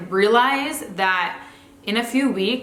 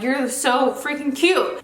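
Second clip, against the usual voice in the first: put-on slow, higher gush over the kids; adoring; 5 semitones higher, slower than usual. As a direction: melt at how cute they are. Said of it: "you're like".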